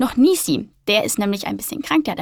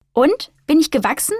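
curious; 5 semitones higher than usual. Acted. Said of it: "fragt sie neugierig".

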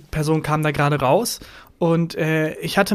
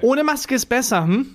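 higher, needling mock advice; passive-aggressive; 7 semitones higher than usual. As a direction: put on a pointed 'hm?' at the end. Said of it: "dieses passiv-aggressive".

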